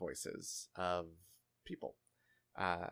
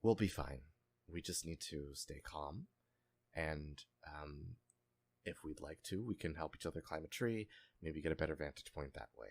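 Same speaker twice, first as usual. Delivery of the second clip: calm female voice; 2 semitones lower than usual. Acted. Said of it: "a female voice that says".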